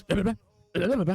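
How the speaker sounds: mock orc gibberish; incoherent orc. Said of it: "seems to be making incoherent".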